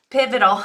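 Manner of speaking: "pivotal" said again carefully, PIV-o-tal; corrected word. Real, not acted. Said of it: "I can't get that word straight today".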